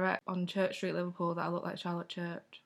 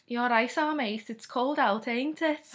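higher-pitched put-on Scouse; Scouse accent; 5 semitones higher, 4 dB louder than usual. Shown as a demonstration. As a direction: do a thick Liverpool Scouse accent. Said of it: "I could nail a Scouse accent".

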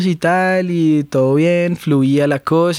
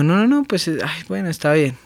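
hesitant giving in; 2 semitones higher than usual. Retold or imitated. Retells partner hesitating, then giving in.

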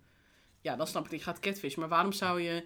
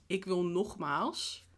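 slow; much slower than usual. Shown as a demonstration. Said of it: "Het is".

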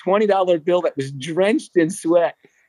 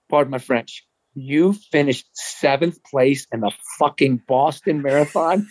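slow, drawn-out amazed question; can't believe what he's hearing; stunned disbelief; slower than usual. Retold or imitated. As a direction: stretch out the shocked question. Retold disbelief at friend's result.

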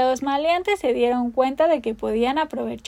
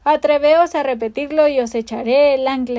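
mock pirate threat; 5 dB louder than usual. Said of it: "replicó la voz".

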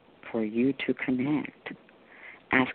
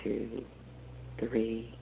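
guided meditation. Acted. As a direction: guide them gently into calm.

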